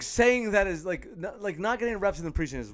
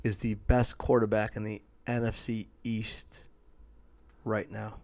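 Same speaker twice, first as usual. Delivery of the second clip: slow low mock-sultry delivery; drawn out, close to the mic; low unhurried voice; 6 semitones lower, 4 dB quieter, slower than usual. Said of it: "I'm gonna say it real slow".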